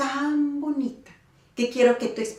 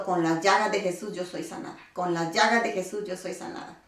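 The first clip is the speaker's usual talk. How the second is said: quiet prayer; 5 semitones lower, 6 dB quieter than usual. Retold or imitated. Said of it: "Y diciendo".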